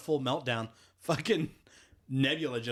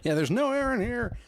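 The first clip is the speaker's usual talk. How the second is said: much higher, louder strained voice; trapped man; 12 semitones higher, 4 dB louder than usual. Retold or imitated. Kevin Bacon complaining from inside the box, much higher and louder. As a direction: gasp it out like you're suffocating.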